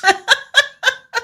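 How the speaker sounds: short high-pitched amused laugh. Real, not acted. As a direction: laugh at your own joke. Laughing at own sarcasm.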